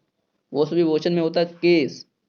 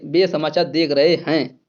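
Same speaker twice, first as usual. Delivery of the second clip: slow model sentence; slower than usual. Shown as a demonstration. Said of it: "देख रहा है नहीं".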